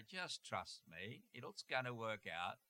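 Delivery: soft, slow, soothing voice of the Lord; calm them, very slowly and softly; gentle divine reassurance. Acted. The Lord reassures an anxious believer, soft and slow. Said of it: "And the Lord will say".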